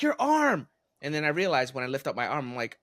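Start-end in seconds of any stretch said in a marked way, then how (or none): 0.0-0.7 put-on kids. Kids pointing at broken arm.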